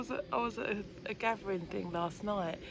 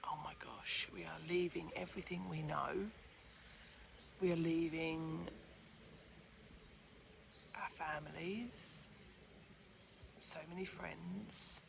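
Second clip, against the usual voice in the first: retold fear; 4 dB quieter than usual. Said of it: "It was like".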